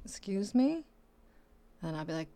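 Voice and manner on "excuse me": shocked patient. Retold or imitated. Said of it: "my patient's gonna be like".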